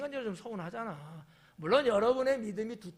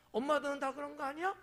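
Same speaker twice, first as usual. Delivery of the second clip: put-on naive child; 8 semitones higher, faster than usual.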